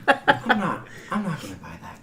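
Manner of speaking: laughing through the words; can't keep a straight face. Acted. GM's NPC doubts the excuse.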